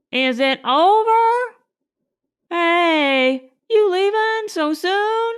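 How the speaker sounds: high, eager calling out; eager bystander. A narrator's reading. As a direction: call out to them, curious. Curious bystanders call out.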